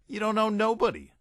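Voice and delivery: high-voiced hustler patter; street hustler. A narrator's reading. Hustler working on newcomer.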